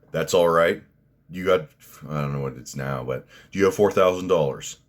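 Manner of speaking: a recruiter who only cares about the tuition money; admissions officer. Acted. Mock admissions officer asks for money.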